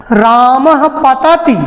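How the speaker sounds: रामः पतति said slowly, each syllable apart; slow example. Shown as a demonstration. Teacher slowly reading an example for students. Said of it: "तो इसको जल्दी से".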